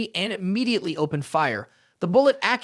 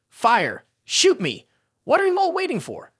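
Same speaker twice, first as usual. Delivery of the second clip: desperate shout; 8 semitones higher than usual. Acted. Hostage begs them to fire.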